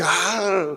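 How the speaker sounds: drawn-out mock roar; grito imitado da mãe. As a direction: imitate the blast of a mother's yell. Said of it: "Meu cabelo ia pra trás". (berro imitado, prolongado)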